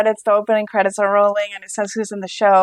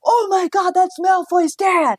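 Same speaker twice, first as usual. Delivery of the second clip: much higher, stunned "oh my God" moment; sudden realization; 10 semitones higher than usual. Retold or imitated. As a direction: play the lightbulb going on. Sudden recognition quote.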